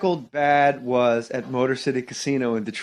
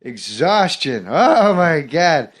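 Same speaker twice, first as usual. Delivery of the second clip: Norm Macdonald. Retold or imitated. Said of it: "I'm doing Norm".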